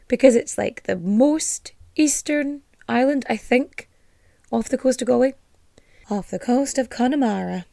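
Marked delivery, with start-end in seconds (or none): 4.5-5.3 a self-mocking try at an Irish lilt on Galway; bad Irish accent. Shown as a demonstration. Host trying an Irish accent on the place name, botched Irish lilt. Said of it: "That was a fucking atrocious accent". 6.1-7.6 soft, clumsy Irish lilt; bad Irish accent. Shown as a demonstration. Host repeating the place in a failed Irish accent, softly. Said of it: "That was a fucking atrocious accent".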